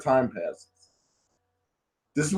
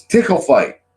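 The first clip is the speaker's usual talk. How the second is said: higher, mock-eager chirp; imitated eager exclamation; 5 semitones higher, 4 dB louder than usual. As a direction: announce it like a playful brat. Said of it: "And she just goes".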